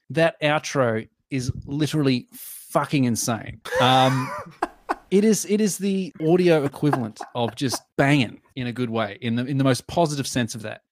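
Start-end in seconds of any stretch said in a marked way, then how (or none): 4.7-6.1 a real laugh breaking in. Real, not acted. Laughing while praising the song to co-host. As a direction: laugh through the words.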